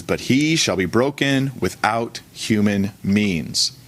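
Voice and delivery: measured scripture reading voice. Acted. Pastor reading Daniel to the church, measured and formal. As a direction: read the verse out to the congregation. Reads scripture passage aloud.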